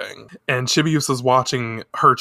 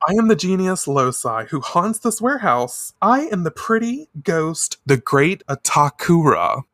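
monster announcing itself; 4 semitones higher than usual. Retold or imitated. Spirit introduces itself to the girls, hammed-up grandeur. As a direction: proclaim it like a hammy spirit. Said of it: "the monster".

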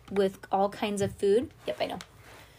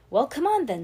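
eager urging; 7 semitones higher, 6 dB louder than usual. Acted. Boy urging friend.

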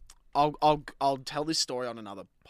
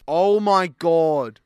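drawn-out groan; 4 semitones higher, 12 dB louder, much slower than usual. Real, not acted. Dreading reading the messages.

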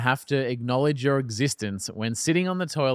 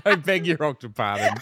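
laughing. Real, not acted. Pun through laughter.

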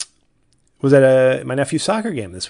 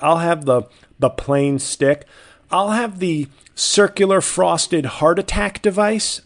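slow, drawn-out sarcastic order; mocking order; 5 semitones higher, 5 dB louder than usual. Mocking a clerk who doesn't know donut names, with slow sarcasm. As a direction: spell out the silly name, slowly.

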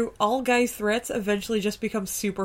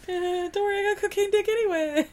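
joking voice; 10 semitones higher than usual. Pretend. Joking in character.

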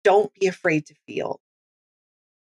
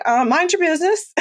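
sassy retort; 9 semitones higher than usual. Retold or imitated. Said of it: "And I was like".

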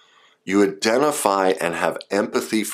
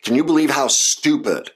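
mock angry rant; 5 semitones higher than usual. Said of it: "Do they sound angry?".

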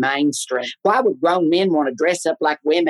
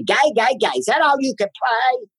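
mock nagging mother; 7 semitones higher than usual. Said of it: "she always says to me".

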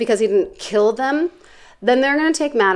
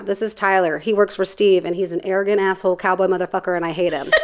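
Carla; 3 dB quieter than usual. Retold or imitated. Bounty hunter confides to camera about Tyler, imitated deadpan aside. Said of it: "So this is me doing her".

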